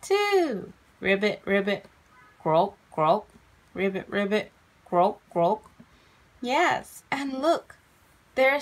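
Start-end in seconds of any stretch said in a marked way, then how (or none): 1.0-5.7 low little frog ribbits and croaks; frog calls. Acted. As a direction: play two frogs croaking low.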